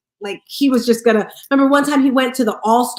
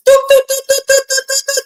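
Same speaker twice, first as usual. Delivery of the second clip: high, popping doot noises; high doot sounds; 13 semitones higher, 5 dB louder than usual. Retold or imitated. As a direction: mimic ideas popping up in quick succession. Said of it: "the ideas are just".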